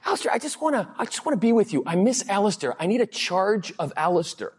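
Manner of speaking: high, gushing client voice. Retold or imitated. Client telling Alistair she misses him, gushing high. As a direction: gush like an adoring client. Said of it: "A client of mine said".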